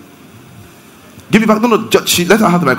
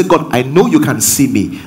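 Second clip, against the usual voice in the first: calm, settled statement of trust; assured; 3 semitones lower than usual. Shown as a demonstration. Preacher shows words that bring assurance, calmly confident. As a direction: say it as steady certainty to God. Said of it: "one will bring you assurance".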